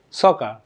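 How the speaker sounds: "সকার" with the final R barely sounded; very slight R. Shown as a demonstration. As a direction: let the R at the end of "সকার" fade away. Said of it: "আরটা উচ্চারণ খুব slowly".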